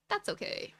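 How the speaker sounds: soft whispered aside. Real, not acted. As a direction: whisper it to yourself. Resigned aside after comparing progress.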